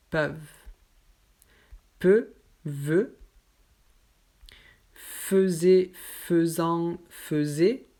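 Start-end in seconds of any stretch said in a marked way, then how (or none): 4.9-7.9 "Faisait" said as feu-zé, closed eu and Z sound. Shown as a demonstration. Teacher showing the special sound of "faisait". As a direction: say "faisait" as feuzé, not fè-zè. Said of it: "avec un Z".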